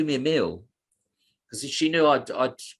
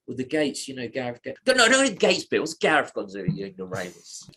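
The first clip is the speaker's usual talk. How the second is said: earnest Carl. Retold or imitated. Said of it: "Carl's so, uh, earnestly crying, going".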